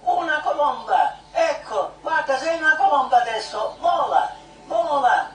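urgent, chanting-like spiritual urging; fervent prayer guidance. Acted. Leader urging a woman to fly like a dove, fervent prayer guidance. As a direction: coax them onward in short, insistent repeated calls.

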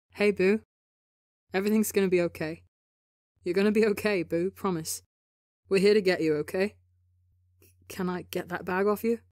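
a touch of sweet comfort; warm and sweet. Acted. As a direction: soothe him like a frightened friend. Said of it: "summer warm and sweet".

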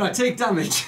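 high, loud, laughing protest; excited dismay. Real, not acted. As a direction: cry out at the bad luck. Reacting to losing the roll.

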